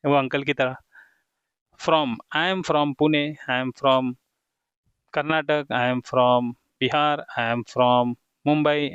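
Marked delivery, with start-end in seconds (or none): 1.8-8.9 slow model sentences; slow dictation. Shown as a demonstration. Teacher modelling names for students, slow and deliberate. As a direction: spell it out slowly for beginners.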